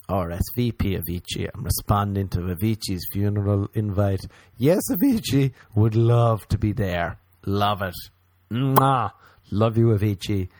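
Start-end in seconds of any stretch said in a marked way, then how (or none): 4.6-10.5 mock gushing. Gushing mock RSVP to funeral.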